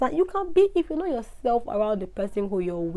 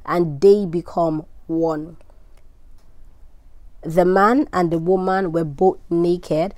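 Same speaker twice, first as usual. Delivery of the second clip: louder, measured Bible reading voice; scripture reading; 3 dB louder than usual. Acted. Host reads scripture to her listeners, solemn and louder. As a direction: read the Genesis passage out with weight, unhurried. Reads Genesis aloud on podcast.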